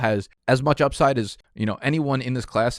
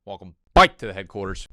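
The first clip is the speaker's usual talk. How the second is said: energetic welcome, louder; louder hype greeting; 5 dB louder than usual. Acted. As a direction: keep the hype going. Second intro greeting.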